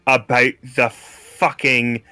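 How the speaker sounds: slow, deliberate threat; slow menace. Acted. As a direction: drag out each word as a warning. Cook repeats threat slowly.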